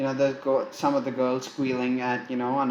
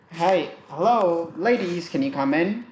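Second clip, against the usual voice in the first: flirty greeting; 5 semitones higher, 4 dB louder than usual. Acted. Flirty call to the ladies.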